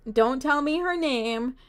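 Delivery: soft, held-back plea not to be told. Real, not acted. Streamer asks viewers not to give the name, soft plea. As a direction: softly stop them from answering.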